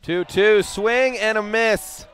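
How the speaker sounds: rising, drawn-out excited call; excited strikeout call. Real, not acted. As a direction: stretch it out, thrilled.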